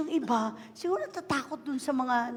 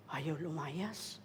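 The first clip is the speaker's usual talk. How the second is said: low, soft, slow refusal; low slow demon voice; stubborn demon; 9 semitones lower, 13 dB quieter, much slower than usual. Pretend. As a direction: play the demon refusing to leave.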